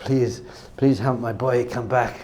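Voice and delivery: soft, low plea from a great-grandparent; slow, hushed entreaty; pleading prayer. Acted. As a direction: beg quietly from heaven. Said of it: "praying for you".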